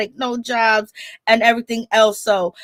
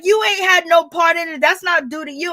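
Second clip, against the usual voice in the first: mock heated retort; 6 semitones higher than usual. Rashida answers her father.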